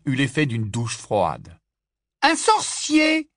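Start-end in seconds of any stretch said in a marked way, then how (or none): 2.2-3.3 high, loud, slow scornful jeer; mocking cry. Big sister mocks the boy, loud and scornful. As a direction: scoff at the word. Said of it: "s'écria-t-elle".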